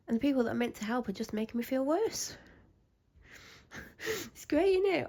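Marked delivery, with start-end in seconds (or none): 4.3-5.1 sarcastic. Real, not acted. After laugh about unhelpful helpers.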